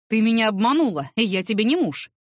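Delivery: obманула hit hard and falling; a man's angry reproach, leaning over her; angry accusation. Acted. Boss accuses her of lying. (гневный упрёк)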